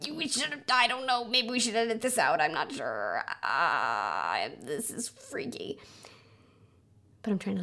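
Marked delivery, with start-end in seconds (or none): 0.0-5.8 perfectionist brain. Acted. Inner perfectionist fretting over an airplane on the recording, hammed-up dithering. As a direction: dither uneasily, pitch swinging up and down. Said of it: "my perfectionist brain would be going".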